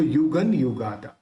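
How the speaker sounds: युगन ending in a clear N; dot as N. Shown as a demonstration. Teacher showing students the dot's sound, युगन said with N. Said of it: "न निकलेगा".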